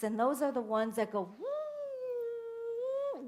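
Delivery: high, slow woo; playful rocket noise; rocket whoosh. Retold or imitated. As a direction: mimic the rocket soaring. Imitating a rocket.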